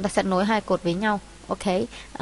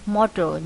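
"model" stressed on the first syllable. Shown as a demonstration. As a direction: say "model" with the weight on MO-. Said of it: "nhấn âm một".

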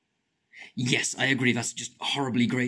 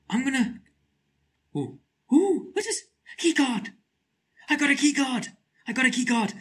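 excited squeal; 9 semitones higher than usual. Real, not acted. Finds key card.

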